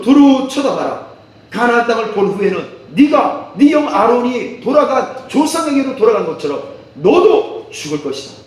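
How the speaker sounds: emphatic preaching, high peaks. Acted. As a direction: preach it out with force. Preaches at full force. (힘주어 외치는 설교)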